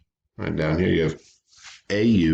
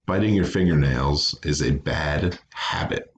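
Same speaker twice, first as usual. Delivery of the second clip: dictation; 3 semitones lower than usual. Shown as a demonstration. Teacher dictating an example sentence.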